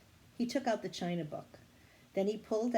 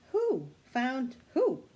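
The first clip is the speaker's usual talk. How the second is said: panting; 5 semitones higher, 6 dB louder, much slower than usual. A narrator's reading.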